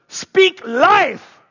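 loud, high rallying shout. Retold or imitated. Preacher shouting a call for the crowd to echo, loud. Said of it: "he would shout out really loud".

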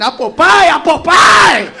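rising then shouted slow; hammed-up excited chant; mock cheer. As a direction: cheer it like a fan. Mocking fan chanting.

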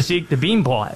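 put-on a light Boston accent on "bean plot"; mock Boston accent. Host teasing co-host in a lightly put-on Boston accent. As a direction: drop the r in "plot" Boston style. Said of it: "Is that you trying to do a Boston accent?".

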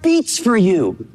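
slow, high and tender; heartfelt Paul. Retold or imitated. Preacher voicing Paul's longing, slow and tender. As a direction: say it like your heart aches for them. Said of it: "He's saying".

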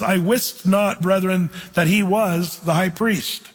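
slow, weighty reading of "I wist not, brethren"; old King James wording. Shown as a demonstration. Preacher reads the King James line slowly to the class. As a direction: lean on the old words, slowly. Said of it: "notice he says".

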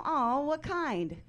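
high, drawn-out cooing; gushing reaction. Retold or imitated. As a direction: coo it slowly like a doting stranger. Acts out people's gushing reaction.

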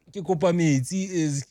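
put-on English-accented Sesotho. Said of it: "He's speaking Sesotho in, like, an English accent".

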